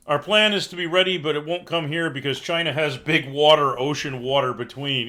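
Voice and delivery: lightly voiced Trump parody; mock Trump. Reading out a viewer's joke plan, mock Trump. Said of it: "Trump voice".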